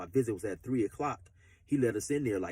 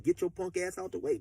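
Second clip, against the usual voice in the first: mock gangster threat; 6 semitones higher than usual. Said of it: "straight gangster shit".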